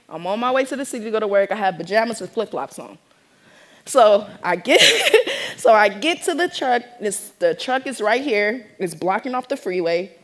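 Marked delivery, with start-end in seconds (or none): 4.9-5.5 real high-pitched laugh. Real, not acted. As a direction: burst out laughing mid-story. Laughs while telling story.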